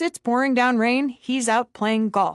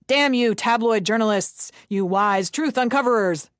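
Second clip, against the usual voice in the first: mock yelling. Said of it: "the yelling must stop".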